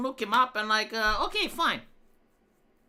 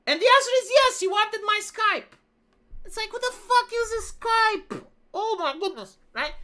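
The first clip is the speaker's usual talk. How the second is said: higher, louder, stretched out in mock outrage; amused rant; 11 semitones higher, 3 dB louder than usual. Real, not acted. Ranting about Skype request.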